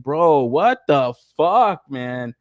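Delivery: very slow, drawn-out what the fuck; disgusted disbelief. Retold or imitated. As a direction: stretch it out in mock horror at the ugly figure. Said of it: "man, I was like".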